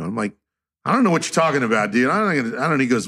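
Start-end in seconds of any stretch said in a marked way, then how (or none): 0.8-2.8 quick, higher-pitched stammering denial; flustered reply. Retold or imitated. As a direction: imitate a baffled, hurried protest. Acting out his flustered reply.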